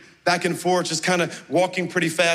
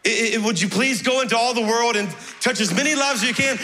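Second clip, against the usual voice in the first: urgent plea; 4 semitones higher than usual. Retold or imitated. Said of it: "he would say".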